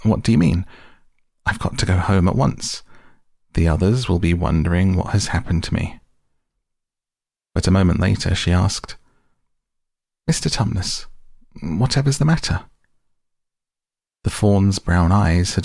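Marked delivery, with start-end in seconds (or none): 0.0-6.0 frightened. Acted. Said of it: "feeling rather frightened". 10.3-12.6 high anxious question; worried. Acted. Lucy worried at faun's tears.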